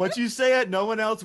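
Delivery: laughing. Real, not acted.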